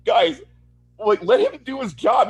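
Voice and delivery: high, loud retold protest; hammed-up pleading outburst; exasperated plea. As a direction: argue indignantly on someone's behalf. Acting own plea to characters.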